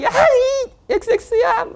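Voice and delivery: high-pitched, drawn-out pretend outburst; hammed-up cursing fit with the swearing censored; mock angry yell. Preacher acts out someone losing their temper, mock angry yell. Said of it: "화를 내요".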